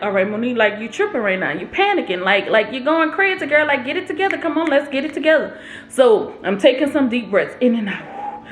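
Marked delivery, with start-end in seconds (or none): 0.0-5.6 calming self-talk. Retold or imitated. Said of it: "I'm like".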